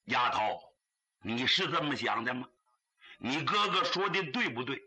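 a lightly voiced old father, low and gentle; a hint of a low, patient father asking. Old father questions crying daughter.

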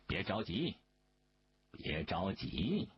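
low, slowing, unhurried reassurance; calm, low-pitched placating; gently smiling reassurance. A narrator's reading. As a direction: soothe with a slight smile, drawing it out. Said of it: "明珠只好微微地笑着说".

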